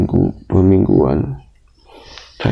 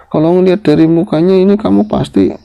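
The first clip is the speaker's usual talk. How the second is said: lively guess; 13 semitones higher, 5 dB louder than usual. Retold or imitated. Bapak menebak asal-usul teman.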